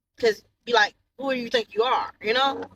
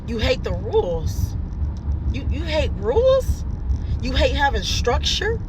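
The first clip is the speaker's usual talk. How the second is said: incredulous mockery; 3 semitones higher than usual. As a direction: throw her words back at her. Mocking daughter's complaint, incredulous.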